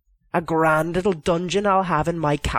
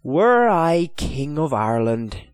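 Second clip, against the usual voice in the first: dreamy; 4 semitones higher, 3 dB louder than usual. Acted. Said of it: "he said dreamily".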